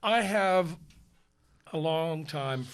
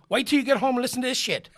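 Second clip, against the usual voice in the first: fast, higher, laughing; gleeful husband; 9 semitones higher, 5 dB louder, faster than usual. Retold or imitated. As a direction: rush it out giddy.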